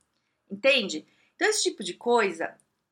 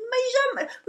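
stammering herself. Retold or imitated. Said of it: "ó, gaguejando".

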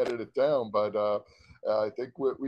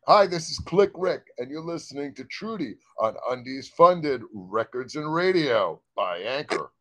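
radio announcer. Acted. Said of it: "final take of radio ID".

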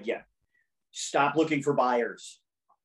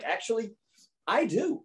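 high, amused "Actually, I do" through a laugh; laughing quote; 8 semitones higher than usual. Retold or imitated. Host retelling his cheeky answer to a client, laughing high. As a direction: laugh as you own it. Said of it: "And I'm like".

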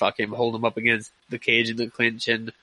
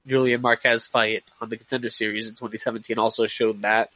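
nasal from a blocked nose; stuffed up nose. Real, not acted. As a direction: talk through a head cold. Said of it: "excuse my nasally voice. I'm all kinds of stuffed up now".

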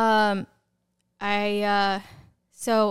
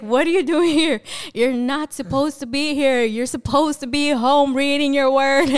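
loud, higher scolding in retelling; God; 4 semitones higher, 6 dB louder than usual. Retold or imitated. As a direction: replay a stern telling-off, half in fun. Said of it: "the voice of God is like".

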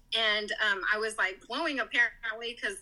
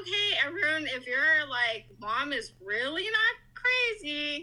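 higher, slow, careful questioning; imitating the testing nurse; 4 semitones higher than usual. Nurse tests whether the boy can talk, careful and slow. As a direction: put the test question to a child slowly.

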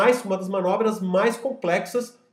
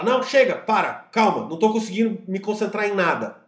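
exasperated outburst; 4 semitones higher, 4 dB louder than usual. Retold or imitated. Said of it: "que você fala".

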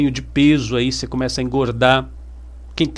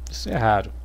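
quiet repeat; 6 semitones lower, 5 dB quieter, faster than usual. Shown as a demonstration. Repeating to the audience, softer and lower.

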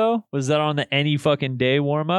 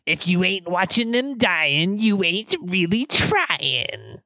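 put-on old witch voice; slower than usual. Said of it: "your line as the old witch".

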